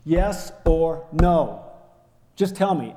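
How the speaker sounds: retold angry demand. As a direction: cut him off, demanding an answer. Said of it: "I kept cutting him off".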